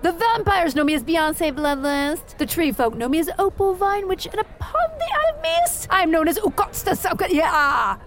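a pompous wizard reciting her titles and epithets; grand wizard proclamation. Acted. Genlevia the wizard introducing herself to the tavern, lofty proclamation. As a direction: declaim your names to the room like a herald.

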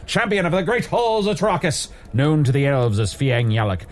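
booming self-important hero reciting his titles; grand heroic proclamation. Acted. Tavern hero to the podcasters, booming grand proclamation. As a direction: declaim every title like a legend.

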